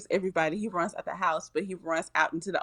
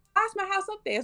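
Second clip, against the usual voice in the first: baffled high question; 13 semitones higher, faster than usual. Retold or imitated. Penny staring up at her floating house, high baffled squeak. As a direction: pitch shoots up on why's, mock disbelief. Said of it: "She said".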